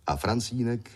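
ordinary delivery, nothing marked

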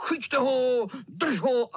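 vysoko a hlasitě; křik. Acted. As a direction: zavolat při honičce. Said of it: "Kluci ho honili a křičeli". (kluci křičí při honičce)

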